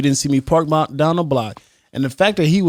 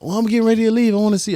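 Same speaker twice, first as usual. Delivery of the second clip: higher-pitched mock wife voice; wife on phone; 8 semitones higher, faster than usual. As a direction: play the eager wife, pitched up. Acts wife on phone to husband.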